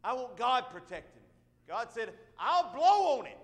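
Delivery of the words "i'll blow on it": voice of God. Acted. Preacher voicing God.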